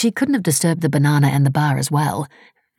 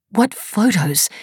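higher, sharp query; baffled, higher question; puzzled question; 6 semitones higher, much slower than usual. A narrator's reading. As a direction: ask in confusion. Mira confused question.

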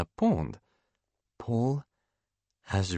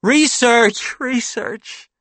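high, loud alarmed shout; high-pitched urgent call; frantic cry; 5 dB louder, much slower than usual. A narrator's reading. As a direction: cry it out in a panic to stop someone. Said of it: "cries Paul".

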